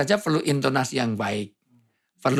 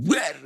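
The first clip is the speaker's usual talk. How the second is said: high, abrupt bray; imitated donkey bray; 3 semitones higher than usual. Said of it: "Kalau ini nggak, khimar tuh". (tiruan suara keledai)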